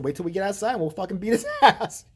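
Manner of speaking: retold threat for others to overhear, breaking into laughter; mock loud threat. Telling friend so the other guy could hear, mock loud threat. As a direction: call it out half-laughing, like a staged threat. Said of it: "I just said really loud so the guy could hear".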